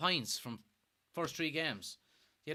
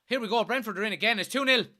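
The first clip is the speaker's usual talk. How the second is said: high, loud, fast cry of disbelief; alarmed outcry; 6 semitones higher, 6 dB louder, faster than usual. Real, not acted. Fan watching his team concede, shouting in alarm. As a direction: blurt it out as the goal goes in. Fan sees Brentford score again.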